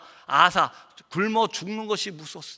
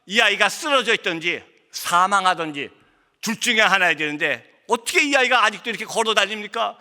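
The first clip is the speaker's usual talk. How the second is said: retold astonishment, pitch climbing; mock disbelief, insistent and raised; astonished doctor; 4 semitones higher than usual. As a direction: act out a baffled doctor, voice rising. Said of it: "의사가 깜짝 놀랍니다".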